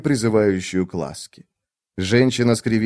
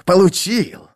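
higher, louder triumphant cry; triumphant gloat; 9 semitones higher, 3 dB louder, slower than usual. A narrator's reading. Iskaral crows about the women, higher and triumphant. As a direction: crow the word получил in triumph.

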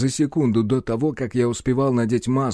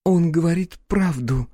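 put-on interrupting girl; 6 semitones higher than usual. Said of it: "перебила Майя".

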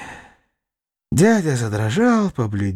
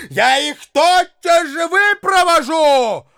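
high, loud, slow shout; shouting threat; 11 semitones higher, 3 dB louder than usual. A narrator's reading. Widow threatening to throw guests out, high shout.

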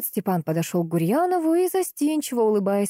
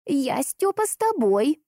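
put-on old woman's voice; 9 semitones higher, slower than usual. A narrator's reading. Старушка идёт за дедом.

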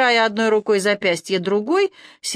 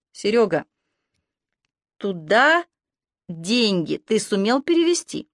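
heartfelt asking. A narrator's reading. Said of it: "проникновенно поинтересовалась Ирка".

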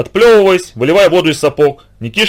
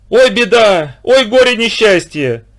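much higher, mock wailing grief; hammed-up lament; 7 semitones higher, slower than usual. A narrator's reading. The kulak fakes grief on the riverbank, hammed-up wail. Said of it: "кричал, мечась по берегу".

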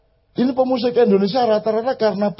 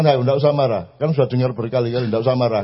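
imitating Mbak Fia's warning; 6 semitones lower, faster than usual. Mbak Fia telling him not to get angry, lower and laughing. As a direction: gently chide like Fia does. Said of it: "langsung dia peringatkan".

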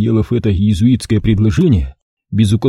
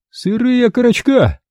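disgusted; 13 semitones higher than usual. A narrator's reading. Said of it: "с отвращением спросил Кострат".

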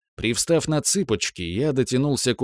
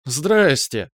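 giggling; 4 semitones higher, 4 dB louder than usual. Acted. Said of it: "хихикнула Браилова".

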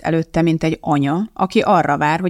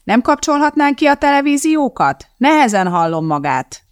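high, raised-voice request; pitched up to be heard; calling over noise; 9 semitones higher, 3 dB louder than usual. A narrator's reading. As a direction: call out over blaring televisions. Calling over blaring televisions.

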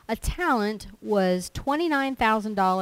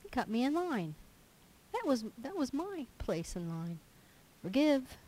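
higher, petty whining about traffic; mock complaint; 6 semitones higher, 4 dB quieter than usual. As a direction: poke fun at a trivial grievance. Mock complaint, then a one-word answer.

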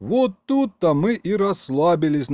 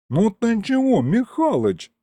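higher, hurt imp; offended; 10 semitones higher than usual. A narrator's reading. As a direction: take offence at the old man. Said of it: "обиделся бес".

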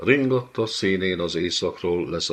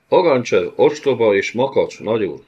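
spat out, loud and high; sputtering spite; 4 semitones higher, 7 dB louder than usual. Acted. Commander spits contempt for Ogancsev at the lord. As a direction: sputter contempt through rotten teeth. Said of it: "fröcsögte odvas fogainak kerítése mögül".

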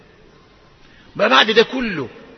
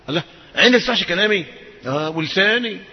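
usual speaking voice

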